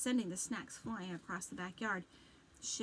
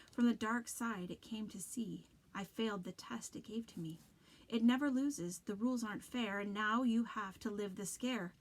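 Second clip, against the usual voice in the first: creepy voice; 3 dB louder than usual. Acted. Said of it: "his voice suddenly normal, not as creepy".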